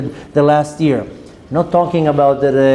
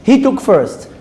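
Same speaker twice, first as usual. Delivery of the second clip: put-on high-pitched childish accusation; mock playground protest; squabbling small child; 5 semitones higher, slower than usual. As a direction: imitate a little kid telling on someone. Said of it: "approach of a three-year-old or a five-year-old".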